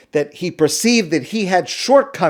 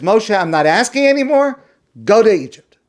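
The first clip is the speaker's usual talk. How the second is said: angry; 5 semitones higher, 3 dB louder than usual. Acted. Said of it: "Now God gets angry and says".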